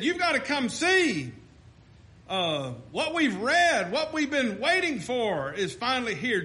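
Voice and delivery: fervent gospel preaching. Acted. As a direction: preach it to the pews. Preaching to congregation.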